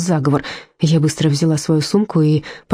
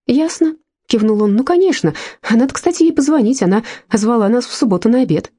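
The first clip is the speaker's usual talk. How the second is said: lightly raised, breezy husband brushing her off; Mark's voice, dismissive; 6 semitones higher than usual. Acted. Mark dismissive, higher voice.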